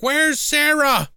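high, drawn-out mock yell; retold call-out. Alex hunts for Sarah at prom, mock yell. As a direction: call it out across the hall, half-shouted.

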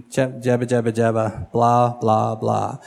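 mock babble, low and offhand; mocking imitation of empty talk; dismissive blah-blah. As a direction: reel it off as empty chatter. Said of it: "is all that's coming out of Goliath".

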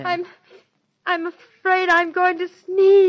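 high, loud panicky plea; fighting back a sneeze. Acted. About to sneeze.

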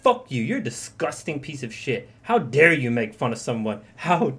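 hammed-up angry woman, loud climax on how dare you; mock her outrage, building to a shout; imitating an offended match telling him off, mock fury; retold furious rant. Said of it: "she got so fucking pissed".

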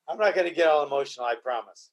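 fighting back tears, trying to hold it together; real emotion breaking through on the promise; choking up. Real, not acted. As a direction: voice dropping low and soft as emotion takes over. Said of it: "I'm getting emotional about this shit".

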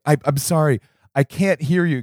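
acted flustered bartender; apologetic bartender. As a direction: hesitantly admit you can't hear. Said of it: "John's like".

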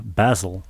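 "Basil" as BAZ-ul, short A; English pronunciation of Basil. Shown as a demonstration. Host explaining the name in England, Basil with short A. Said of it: "in England, you would pronounce".

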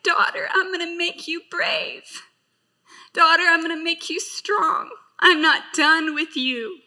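tearful. Retold or imitated. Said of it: "and he said".

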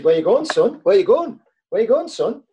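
furious manager stopping a player heading for the showers; building angry yell. Retold or imitated. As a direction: demand an answer, getting angrier each time. Manager confronting player leaving early.

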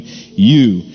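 "You" said alone and firm; stress on you. Shown as a demonstration. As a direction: set "You" apart on its own. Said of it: "emphasize this first one".

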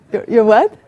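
usual speaking voice

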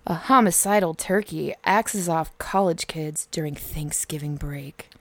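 sultry turkey voice, fading to a whisper; sexy turkey voice. Pretend. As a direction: purr it like a seductive turkey. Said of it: "in my sexy turkey voice".

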